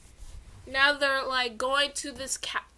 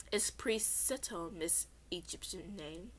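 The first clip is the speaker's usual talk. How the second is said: fake polite; 5 semitones lower, 11 dB quieter than usual. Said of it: "Priest Seto said ... fake smile".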